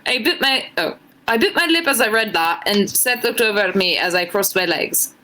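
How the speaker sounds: put-on a shaky try at an Irish accent, drifting British; reading fan fiction aloud in a so-so Irish lilt; attempted Irish accent. Streamer reading fan fiction to chat, in a struggling Irish accent. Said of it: "trying her best to do an Irish accent".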